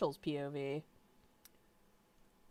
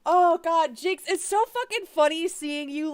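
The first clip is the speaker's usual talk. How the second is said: higher, louder, still laughing; 9 semitones higher, 7 dB louder than usual. Real, not acted. Thanking a viewer for the meme, laughing. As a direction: giggle through praise.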